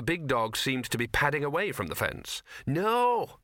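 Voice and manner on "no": hissed no. A narrator's reading. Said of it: "hissed Gaspode".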